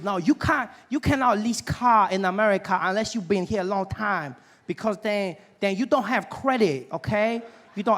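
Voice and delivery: car dealer in a put-on Asian accent. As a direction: imitate an Asian salesman's accented English. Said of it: "there's this Asian gentleman helping me".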